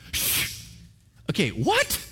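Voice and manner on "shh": a soft hushing shh; a quick, worried shh to quiet a bully; shushing. Retold or imitated. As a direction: hush them like a nervous guard. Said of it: "try to shush the enemy. Literally".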